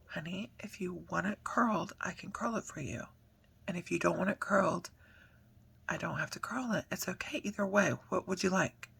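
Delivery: hushed and tender, dropping to a whisper; soft gentle mom voice. Shown as a demonstration. Mom demonstrating how softly she spoke to her daughter, hushed and tender. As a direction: soothe her like a calm mother. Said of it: "I'm literally talking exactly like this".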